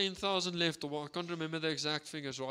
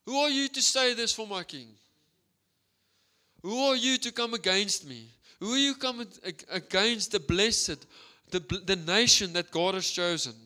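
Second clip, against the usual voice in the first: higher and louder, a defiant battle cry; furious shout; 4 semitones higher, 6 dB louder than usual. Retold or imitated. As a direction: scream the challenge at the giant. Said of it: "he screams at him".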